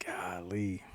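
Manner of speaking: breathy unvoiced aside; whispered golly. Real, not acted. Reacting to old actors playing kids, a soft whispered aside. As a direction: drop to a whisper in mock awe.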